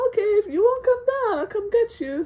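high, loud, exasperated dad; dad threatening. Retold or imitated. Fed-up dad threatening to fetch the kid. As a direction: announce you're coming up after them.

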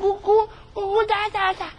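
put-on high babbling baby. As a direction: coo like a newborn. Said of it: "simular o processo de envelhecimento".

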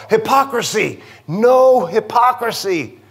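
Spanish-tinged "hypocrisy" with rolled R; Spanish twang. Shown as a demonstration. Preacher playfully repeating his slip to church, Spanish twang. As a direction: roll the R in "hypocrisy", Spanish-style. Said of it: "Rolled my R's".

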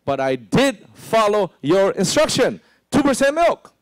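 high, loud whining protest; defensive excuse. Retold or imitated. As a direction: insist you obeyed, pitching up. Excuse to the preacher.

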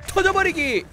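high-pitched attack shout; battle cry. Real, not acted. Calls out his attack.

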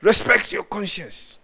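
imitating a politician urging a crowd; politician's slogan. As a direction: intone it like a politician's catchphrase. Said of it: "hear a lot about it among the politicians".

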